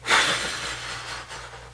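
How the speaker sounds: long, voiceless exhale to let go; releasing breath. Shown as a demonstration. The speaker demonstrating the shake-it-off technique, long releasing sigh. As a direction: breathe the feeling out. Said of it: "I'll just breathe".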